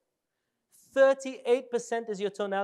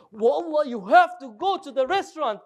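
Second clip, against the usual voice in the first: louder, emphatic insistence; certain, serious recommendation; 4 semitones higher, 6 dB louder than usual. Retold or imitated. Friend insisting on a restaurant, loud and certain. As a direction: insist on the place like a sure friend. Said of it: "you know they're serious".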